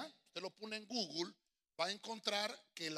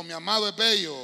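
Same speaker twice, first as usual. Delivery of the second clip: plain; 16 dB louder than usual. Shown as a demonstration. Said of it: "Diga conmigo".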